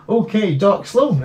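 high, drawn-out hearty exclamation; exclaimed. Retold or imitated. Host rereading a viewer's comment aloud, exclaimed. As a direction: read it out with an exclamation mark. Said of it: "exclamation mark".

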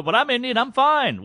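playing the offended exception; mock protest. Comic playing a guy insisting he's fine, high mock whine.

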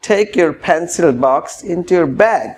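tie your tie stretched out very slowly; slow model phrase. Shown as a demonstration. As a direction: draw out each word for learners. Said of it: "আবার বলুন".

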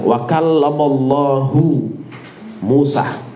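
kallamallahu said slowly with a rounded u on Allahu; original vowel. Shown as a demonstration. Teacher reading the verse's vowel aloud slowly. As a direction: draw out wa kallamallahu, landing on hu. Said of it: "Allahu itu dhammah".

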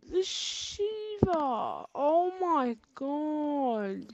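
real tearful despair at being killed again; despairing wail. Real, not acted. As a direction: whimper it out, beaten. Killed once more, despairing.

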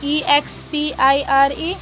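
letters spelled out slowly one by one; slow spelling. Shown as a demonstration. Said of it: "पढ़ के बता दूँ". (धीरे-धीरे अक्षर बोलना)

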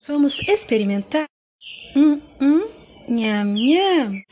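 loud, hammy tasting sounds; loud mock relish. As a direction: ham up the yummy noises. (prova exagerada de chef)

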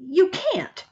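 put-on high-pitched childish protest; shouted. A narrator's reading. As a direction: squeal the refusal. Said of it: "Sammy shouted".

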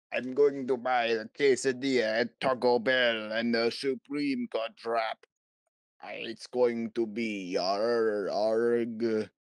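hammed-up pirate voice with a yar; pirate ordering Taco Bell, slowing down; funny pirate. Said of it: "the funny pirate man".

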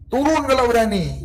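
half-voiced shout of defiance; mild mock yell. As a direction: imitate calling a dare up at someone, without full force. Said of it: "Langsung diteriakin".

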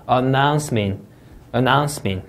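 announcement, leaning on NOUNCE, then falling; stressed syllable in announcement. Shown as a demonstration. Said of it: "강세 주의해 주시고요".

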